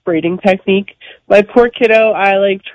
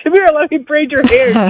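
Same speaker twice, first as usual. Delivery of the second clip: higher-pitched imitation of a coaxing parent; parent coaxing child; 6 semitones higher than usual. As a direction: call a child over, pitched up. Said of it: "I'm like".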